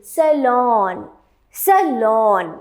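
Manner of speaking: "Salon" as a drawn-out suh-lawn; correct pronunciation drill. Shown as a demonstration. Teacher leading students to pronounce along, correct pronunciation drill. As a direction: stretch the open aw of "Salon". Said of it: "Please pronounce it with me".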